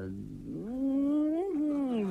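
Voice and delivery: long rising hum of relish; drawn-out high "mmm", longing for a feast; savoring mmm. Acted. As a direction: hum it slowly, swooping up high. Savoring imagined food and drink.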